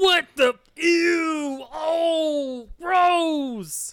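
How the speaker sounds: very high, slow, drawn-out disgusted squeal, "oh" stretched. Showing how to perfect the way a wrestler talks: Macho Man voice. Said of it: "he's been covered in slime".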